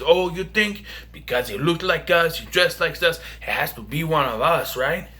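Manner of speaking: put-on light Mexican accent taunt. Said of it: "Sorry for doing the Mexican accent".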